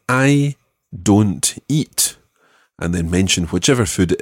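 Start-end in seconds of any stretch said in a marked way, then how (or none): 0.1-2.2 slow model phrase. Shown as a demonstration. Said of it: "is to say".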